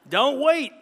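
loud, high laugh through the words; old man laughing back at the boy; laughing retort. Acted.

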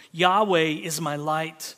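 Yahweh leaned on at the head of the line; stress on Yahweh. Acted. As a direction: open firmly on Yahweh, then read on. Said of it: "notice that the stress is on Yahweh".

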